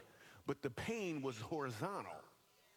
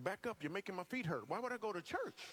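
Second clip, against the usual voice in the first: higher-pitched mock alarm; indignant refusal; 5 semitones higher than usual. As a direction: recoil from the invitation in mock protest. Acted alarmed refusal of church invitation.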